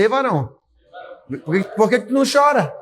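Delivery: playful, quick jab at a man beside you; mildly teasing question, a bit fast; teasing nudge. Shown as a demonstration. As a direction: poke him with a light tease. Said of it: "Cutuca ele e fala assim".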